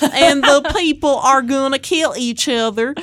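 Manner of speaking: high, loud mock-anxious critic. Shown as a demonstration. Host showing co-hosts the critic voice, exaggerated anxiety. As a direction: wail it like a panicking critic, hammed up. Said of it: "anxious critic voice".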